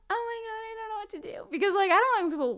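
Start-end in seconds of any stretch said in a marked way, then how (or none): 0.1-1.5 mock panic. Retold panic at being watched.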